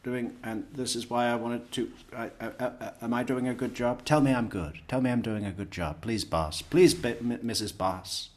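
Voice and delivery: nervous junior employee. Retold or imitated. Junior employee nervously pleading with the boss, mild mock stammer. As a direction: fumble for approval from the boss. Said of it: "sort of nervously saying".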